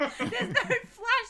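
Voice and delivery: laughing. Real, not acted. Laughing at the film's fake gunshot.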